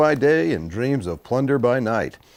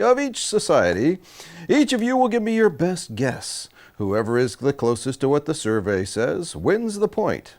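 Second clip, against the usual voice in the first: peppy host explaining the round; game show host. Acted. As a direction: announce the rules like a TV host.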